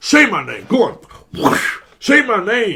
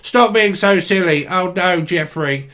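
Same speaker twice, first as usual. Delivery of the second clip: Rainbow puppet voices; 2 semitones higher than usual. Pretend. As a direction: play the squabbling puppets of a kids' show, mock-sweet. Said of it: "Only the British folk will get that one".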